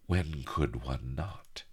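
lightly purred confidence; purring. Acted. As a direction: purr it slowly, amused. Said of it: "Mistress Bonny chuckled, purring".

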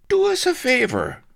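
loud, high, hoarse shout; spluttering roar. A narrator's reading. Drowning man begging a favour, spluttering roar. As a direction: roar it through a mouthful of seawater. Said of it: "roared Blood, spitting sea water".

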